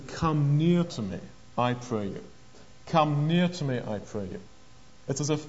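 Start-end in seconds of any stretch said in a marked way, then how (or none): 0.1-2.2 gentle entreaty. Retold or imitated. Joseph to his nervous brethren, gentle entreaty. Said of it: "and he says". 2.9-4.4 gentle entreaty. Retold or imitated. Joseph coaxing his nervous brethren closer, gentle entreaty. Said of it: "and he says".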